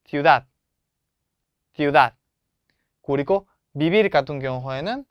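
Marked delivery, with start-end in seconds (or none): 0.1-0.5 시우다드 with a loud 다드; stress on last syllable. Shown as a demonstration. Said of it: "마지막 음절에". 1.7-2.1 시우다드, loud on the closing 다드; stress on last syllable. Shown as a demonstration. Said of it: "마지막 음절에".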